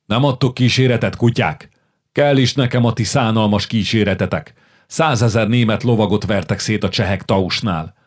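king's furious raging outburst; furious shouting king. Acted. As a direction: hurl contempt at the princes. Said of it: "üvöltött Zsigmond".

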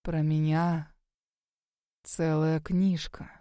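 low, slow booming voice; a deep hollow boom from the old ghost. A narrator's reading. Ghost speaking to the girl, low and booming. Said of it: "гулко произнёс он".

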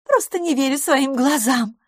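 can't believe your eyes; amazed. Acted. LaFosse still marvelling. (изумлённо, голос выше)

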